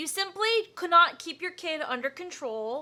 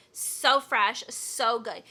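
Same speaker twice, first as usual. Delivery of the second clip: imitating a creaky influencer vocal fry; 3 semitones lower, much slower than usual. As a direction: drag the words out in lazy vocal fry. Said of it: "Why do they always have a vocal fry?".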